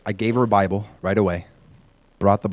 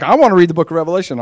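put-on eager child; 6 semitones higher, 8 dB louder, faster than usual. Seven-year-old son announcing plan.

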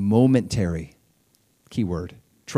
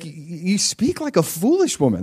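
husband's retort; 7 semitones higher than usual. Retold or imitated. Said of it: "he actually says to her".

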